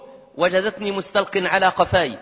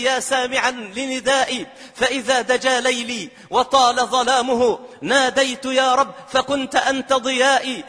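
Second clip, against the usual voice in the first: raised, intoning sermon recitation of verse; devotional poem recital; 3 semitones higher than usual. Acted. (إلقاء شعري ابتهالي مرتفع النبرة)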